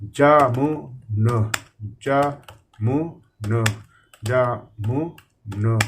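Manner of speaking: जामुन drawn out very slowly, each syllable held; very slow dictation. Shown as a demonstration. Teacher showing students how to dictate जामुन slowly. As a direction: stretch जामुन out as you type it. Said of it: "इस तरीके से".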